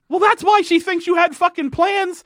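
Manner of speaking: high, exasperated retort; mock exasperated scolding. Telling the flirty character off, exasperated and high. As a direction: scold him like he's an idiot.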